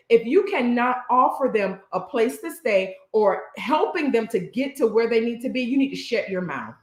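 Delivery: firm emphasis on "cannot", each point spelled out; very clear. Real, not acted. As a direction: make the warning unmistakably clear, stressing "cannot". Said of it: "I'm gonna say this very clear".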